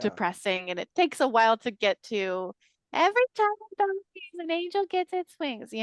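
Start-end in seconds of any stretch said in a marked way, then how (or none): 2.9-5.7 much higher mock movie-quote voice; It's a Wonderful Life. Quoting the film's angel line to co-hosts, high put-on voice. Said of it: "that was such a good impression".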